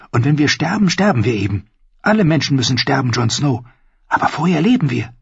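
put-on high, bold young wildling woman; spirited young woman, earnest; Ygritte voice. Narrator voicing Ygritte.

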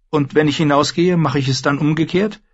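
high, careful query; questioning queen. Acted. Dany asks the warlock, high and wary. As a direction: ask it warily.

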